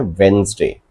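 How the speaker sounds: वेडनेसडे said as wenz-day; Wednesday said right. Shown as a demonstration. Teacher corrects students' वेडनेसडे to wenz-day. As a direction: model वेडनेसडे as wenz-day, first d silent. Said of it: "but pronunciation इसका होता है".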